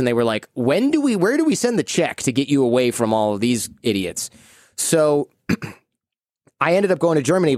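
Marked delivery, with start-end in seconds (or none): 0.5-4.3 mock eagerness. Parents to son about sending him away, mock eagerness. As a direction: pitch leaps up, then settles.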